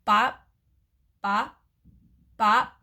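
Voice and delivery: short imitated bops, spaced apart; bopping thuds. A narrator's reading. Hamster hearing the frog approach, short bopping sounds. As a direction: separate punchy bops with gaps between. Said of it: "Then I heard a new sound".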